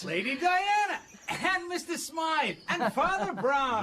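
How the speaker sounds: high, laughing hello, drawn out slowly; amused greeting. Acted. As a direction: greet them with a chuckle.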